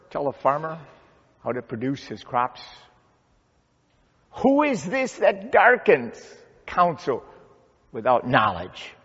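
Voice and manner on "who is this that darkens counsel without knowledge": high, emphatic start falling to a firm close; forceful challenge. Acted. Preacher repeats God's question to challenge Job, forceful challenge.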